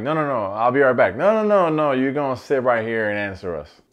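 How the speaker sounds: put-on retelling a boyfriend trying to flee; mock frantic protest. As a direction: panic to get out of the room. Harry dodging, Jessica stopping him.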